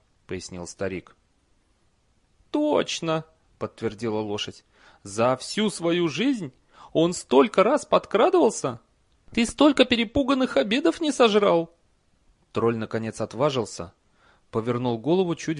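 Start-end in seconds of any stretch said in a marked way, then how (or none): 2.5-11.7 high, loud horse voice. Acted. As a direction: squeal it like a talking horse. Horse speaks.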